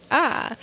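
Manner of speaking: a small tongue-tied noise; awkward "ah". Retold or imitated. Comedian imitating self unable to talk, awkward little sound. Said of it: "I would just be like".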